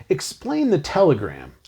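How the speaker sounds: slow, calm quote. Retold or imitated. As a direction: let "Explain the telegram." land slowly and evenly. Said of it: "he said".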